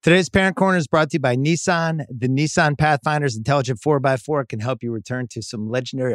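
smooth, steady podcast ad read; host reading an ad; sponsor ad read. Real, not acted. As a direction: read the sponsor copy straight through. Reads sponsor copy.

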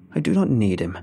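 lightly voiced gloating witch; a hint of a gloating old hag; menacing witch.

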